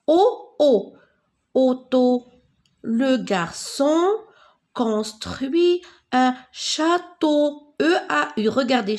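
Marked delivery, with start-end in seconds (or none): 2.8-7.7 slow model reading. Shown as a demonstration. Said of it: "lecture modèle lente".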